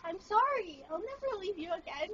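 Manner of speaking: tender apology. Real, not acted. Apologizing to the bird.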